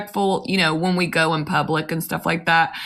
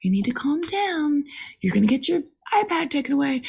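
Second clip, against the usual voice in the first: calm firm mom; 9 semitones higher, 4 dB quieter than usual. Retold or imitated. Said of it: "I'm staying calm".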